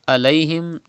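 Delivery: "alayhim" with a simple glottal a; mistaken Hamza. Shown as a demonstration. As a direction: begin "alayhim" on Hamza, no throat squeeze. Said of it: "that means you are reading Hamza".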